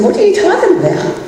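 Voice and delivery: high, taken-aback question; high shocked mom, caught off guard; startled disbelief. Retold or imitated. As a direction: retell how blindsided she was. Mom's shocked reply to son.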